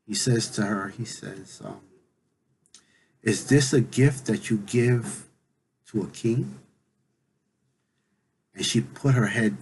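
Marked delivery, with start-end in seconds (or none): 3.2-6.6 slow, mildly stern questioning; lightly voiced stern king, taking his time. Olofi questions Yemaya about her gift, mildly stern. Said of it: "in a very stern voice".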